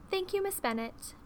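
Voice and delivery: high, small creature voice; little dragon voice. A narrator's reading. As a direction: thank her like a small, polite hatchling. Baby dragons thank Jane, voiced.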